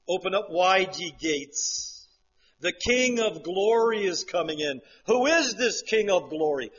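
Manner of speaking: loud proclaiming call; heaven proclaiming. Retold or imitated. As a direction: announce the King of glory. Voicing heaven singing Psalm 24.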